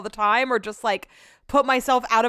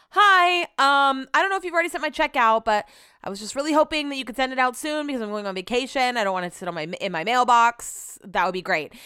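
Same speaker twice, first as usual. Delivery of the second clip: sweet polite request voice; 3 semitones higher, faster than usual. Retold or imitated. Texting the guy about her check, sugary polite voice. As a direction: sound extra nice while rushing him. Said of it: "sense of urgency being dramatic".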